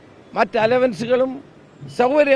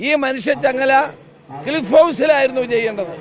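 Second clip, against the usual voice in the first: rally speech. Real, not acted. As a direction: rouse the crowd, stressing every charge. Fiery political protest speech.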